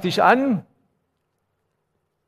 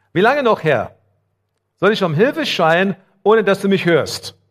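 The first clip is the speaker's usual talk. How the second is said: crying out to God; 4 semitones higher, 4 dB louder than usual. Acted. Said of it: "Hör mal zu, Habakuk".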